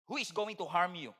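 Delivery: quiet closing Bible verse; scripture reading. Acted. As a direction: read it as a gentle question.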